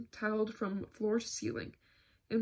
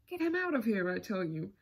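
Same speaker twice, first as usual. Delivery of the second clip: sharp raised outburst, then easing off; shouted. Acted. Angry surgeon ordering the Count thrown out, shouted. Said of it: "shouted Krasnikov".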